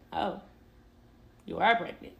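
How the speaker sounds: understated, calm retold reaction; mock calm. Boyfriend reacting to the pregnancy test, mock calm. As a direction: say it slightly low and even, imitating calm. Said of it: "He is so calm".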